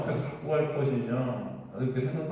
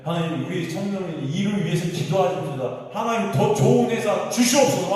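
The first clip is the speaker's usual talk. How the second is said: hammed-up pulpit prayer, getting louder; mock loud prayer; 3 semitones higher, 4 dB louder than usual. Pastor mimicking preachers praying for a better job, in a hammed-up loud prayer. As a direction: pray loudly for a better job, mocking it. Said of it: "통성기도하고 난리 친다니까요".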